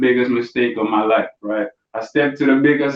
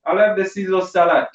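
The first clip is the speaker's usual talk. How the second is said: higher, lightly voiced mother ordering; a hint of mama, pitched up; mock mum ordering salad; mama's voice; 7 semitones higher than usual. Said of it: "she was like".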